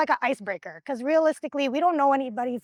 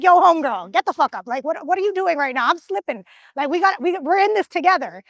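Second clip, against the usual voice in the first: louder, turned-around scolding; scolding call; 3 semitones higher, 5 dB louder than usual. Retold or imitated. Yelling at homegirl to get up, loud scolding. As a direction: chew out the teammate who slacked. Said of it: "I'm like".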